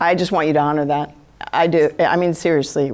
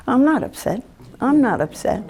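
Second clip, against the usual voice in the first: defensive denial; 5 semitones higher than usual. Acted. Acted denial to an empath.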